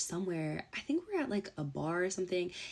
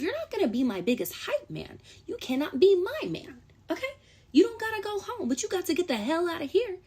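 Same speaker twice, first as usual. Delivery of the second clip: high, loud and sassy; sassy dismissal; 9 semitones higher, 3 dB louder than usual. Acted. Telling the ex to leave, high, loud and sassy. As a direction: kick him out with a high, loud flourish.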